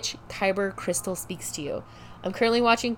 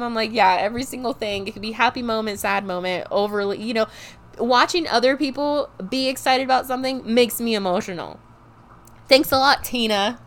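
higher, louder, laughing mock-exasperated rant; laughing exasperation; 4 semitones higher, 5 dB louder than usual. Daughter blaming mom for her sensitivity, laughing and loud. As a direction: tease mom with giggly fake blame.

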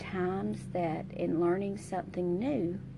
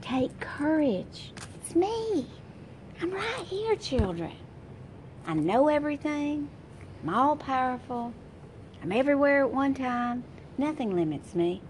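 higher, lightly voiced reassuring God; voicing God reassuring; 4 semitones higher than usual. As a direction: speak as God comforting his children. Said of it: "this is what God's saying".

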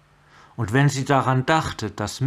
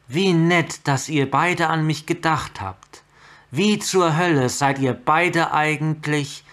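sarcastic; 5 semitones higher, 4 dB louder than usual. Acted. Chandra sarcastic, angry at visitors.

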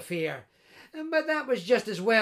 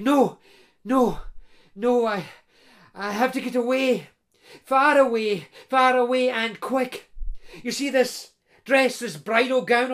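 desperate bride; 3 semitones higher, 4 dB louder than usual. Acted.

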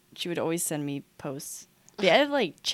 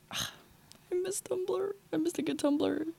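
wistful sigh; 12 semitones higher, 5 dB quieter, slower than usual. Real, not acted. Nostalgic sigh for Tumblr.

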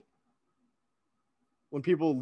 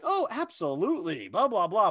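in character; 4 semitones higher than usual. Retold or imitated. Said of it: "like, in character".

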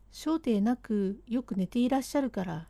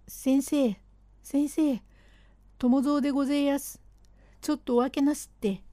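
quick, higher urgent call at the door; 4 semitones higher than usual. Acted. Servant bangs on the doctor's door, quick urgent call. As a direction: hurry the doctor awake.

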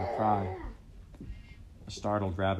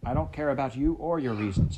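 loud, higher angry shout; 5 semitones higher, 5 dB louder than usual. Acted. Heather shouting down Kyle's excuses. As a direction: cut him off hard. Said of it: "Heather shouted".

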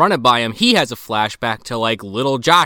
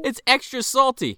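much higher, leering creep voice; sleazy creep; 11 semitones higher than usual. Pretend. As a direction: savor it like a pervert. Voices creepy guy joke.

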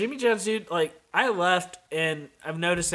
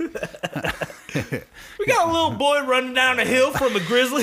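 higher, slow order call through a laugh; coworker calling orders; 8 semitones higher, 3 dB louder, slower than usual. Retold or imitated. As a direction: drag out the order call, cracking up. Brennan calling orders at work.

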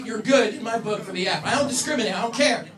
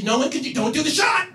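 louder, higher yelled warning; mock yell; 6 semitones higher, 6 dB louder than usual. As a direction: shout at a friend to hold the shot. Friends yelling at shot time.

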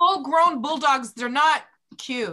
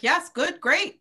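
higher, brisk mock-eager yeses; eager agreement; 5 semitones higher, slower than usual. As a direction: lightly imitate clients happily agreeing. Voices clients' eager agreement.

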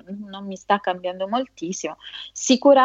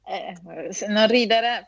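stifled giggles. Real, not acted. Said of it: "non si ride".

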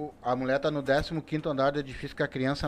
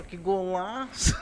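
slow, high, drawn-out shout; excited shout; 4 semitones higher, much slower than usual. Retold or imitated. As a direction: shout the goal in wonder. Portuguese shouts about the goal. (grito empolgado de golaço)

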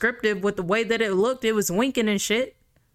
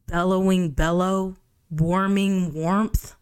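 mocking. Real, not acted. Mocking redundant phrases.

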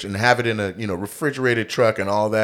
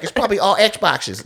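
hopeful thief; 10 semitones higher than usual. Retold or imitated.

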